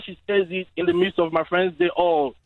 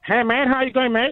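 higher-pitched mock Australian accent; non-native impression of Australian speech; Aussie accent; 4 semitones higher than usual. Shown as a demonstration. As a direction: greet in an imitated Aussie accent. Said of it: "give us your Aussie accent".

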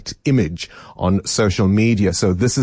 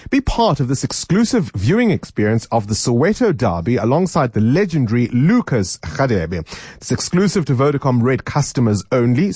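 ad read. Acted. Live radio ad read.

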